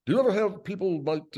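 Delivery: high, slow, exaggerated chef character voice; chef Chodilia voice. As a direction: play the fussy chef, high and drawn out. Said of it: "he talks like this".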